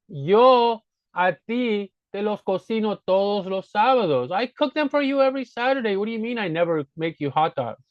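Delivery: play-acted exasperation; mock indignant rebuttal. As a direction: defend yourself against an unfair complaint, playfully. Acted rebuttal in staged quarrel.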